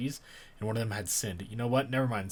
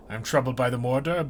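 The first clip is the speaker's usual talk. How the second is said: troubled declaration; 3 semitones higher, 7 dB louder than usual. Acted. Tree voice declares.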